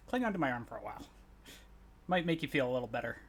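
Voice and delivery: softly offered comfort; gentle reassurance. Acted. Player comforting a companion in character, gentle and soft.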